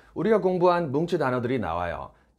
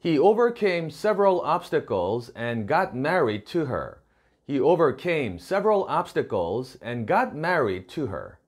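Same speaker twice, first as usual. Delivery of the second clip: slow, careful English read-aloud; slow model reading; much slower than usual. Shown as a demonstration. Teacher reads the model sentence to students, slow and clear. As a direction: read it slowly so learners can follow.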